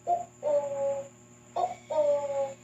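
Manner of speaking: "ooh, ooh" with a short catch, then held; glottal stop. Shown as a demonstration. Teacher likens the tone's stop to a sound, OOH cut then held. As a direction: stop the first OOH short in the throat, sustain the next. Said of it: "make the same stop".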